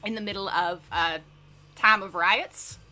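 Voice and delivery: lightly put-on, self-conscious Southern accent; bad Southern accent. Shown as a demonstration. Streamer reading a news topic to chat as a joke, bad Southern accent. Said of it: "really bad Southern accent".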